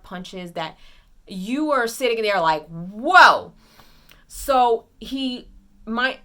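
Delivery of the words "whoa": whoa. Retold or imitated. Awed reaction to hard punches.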